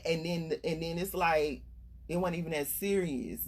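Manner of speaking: ordinary talk, nothing marked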